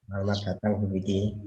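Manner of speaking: slightly hoarse greeting. Real, not acted. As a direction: speak through a hoarse throat. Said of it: "suara saya agak serak-serak".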